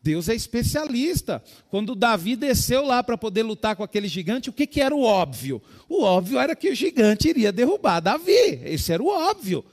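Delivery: loud, high-pitched preacher exhortation; preaching at full force. Real, not acted. Preacher urging the congregation to expect change, full force.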